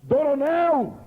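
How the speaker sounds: mock strong voice. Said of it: "a voz era grossa e forte".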